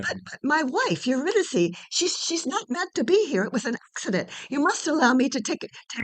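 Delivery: high, stammering plea, rushing at the end; desperate pleading. Acted. Orpheus begs Hades for his wife, desperate. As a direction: beg for her back, voice climbing.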